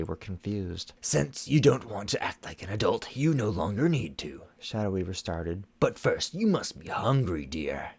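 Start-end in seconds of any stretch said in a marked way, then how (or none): 1.0-4.4 stern sorceress voice. Acted. Shadow Weaver scolding, held voice. 5.8-7.9 honeyed, falsely kind voice; sweet as poison; sickly sweet. A narrator's reading. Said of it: "she said in a sickly sweet tone".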